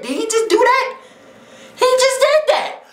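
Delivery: high-pitched incredulous exclamation; stunned disbelief. Real, not acted. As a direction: squeal it in sheer disbelief. Disbelief at what he watches.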